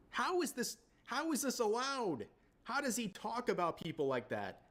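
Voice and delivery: high-pitched, outraged disbelief; incredulous outrage. Real, not acted. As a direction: pitch leaps up, demanding how on earth. Outraged at racist accent clip.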